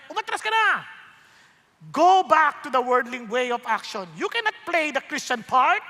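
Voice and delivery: voice of cowardice. Acted. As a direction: taunt him to go back. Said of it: "sinasabi niya".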